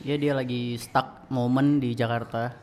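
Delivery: "stuck moment" said for stuck; tongue trips on "stuck moment"; braces slip. Real, not acted. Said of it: "Eh, sorry".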